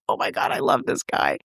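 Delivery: breathless whispered gush; hushed awe at a hero. Retold or imitated. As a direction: whisper it, starstruck. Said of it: "I was like".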